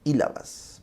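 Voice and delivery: sílabas repeated slowly and trailing off; dragged syllables. Shown as a demonstration. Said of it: "logoclonía es cuando arrastras".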